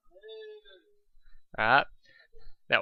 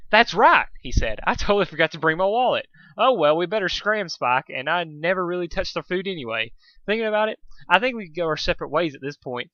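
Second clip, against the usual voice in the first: a lightly raised, hurried voice for a flustered stallion; Dusk, flustered excuses; 5 semitones higher than usual. Acted. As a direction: babble your excuses to get out the door.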